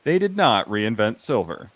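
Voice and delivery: dry documentary narrator; deadpan narrator voice. Pretend. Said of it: "It's like, narrator".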